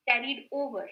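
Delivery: "Carried over" said firmly with OVER clear; stress on OVER. Shown as a demonstration. Teacher correcting a slip to her class, stressed correction. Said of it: "not away".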